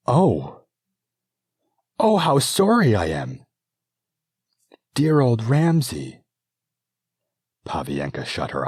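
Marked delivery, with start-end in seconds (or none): 0.1-6.2 much higher, louder, anguished cries; stricken sorrow. Acted. Princess regent mourning her old friend, high and anguished. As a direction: cry out at the loss of a friend.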